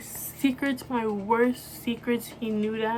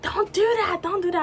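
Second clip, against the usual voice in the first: higher-pitched mock plea; imitating urgent plea; 9 semitones higher than usual. Retold boyfriend pleading while driving.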